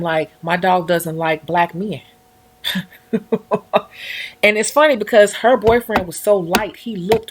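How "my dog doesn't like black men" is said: quoting friend. Retold or imitated. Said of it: "she used to say".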